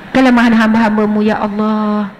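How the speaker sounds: low sleepy prayer, trailing off; acted drowsy prayer. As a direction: pray as if half asleep.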